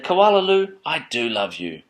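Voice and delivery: name called high and loud, then dropping; fond mother. Acted. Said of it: "her mothers had looked at her".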